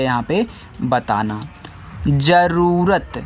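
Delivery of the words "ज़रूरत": slow dictation. Shown as a demonstration. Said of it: "teacher dictates word to children".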